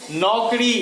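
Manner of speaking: नौकरी with the stress on क. Shown as a demonstration. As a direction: lean on the middle syllable क in नौकरी. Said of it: "क पर है".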